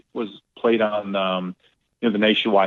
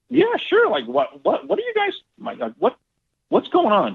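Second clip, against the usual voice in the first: much higher, stammering disbelief; baffled. Retold or imitated. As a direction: play it confused and caught off guard. Baffled by the group's behaviour.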